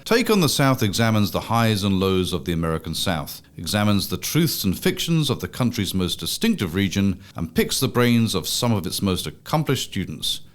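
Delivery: measured announcer read over theme music; podcast intro read. Acted. Host opens Take on the South for listeners, announcer read. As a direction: introduce the show in a scripted announcer style.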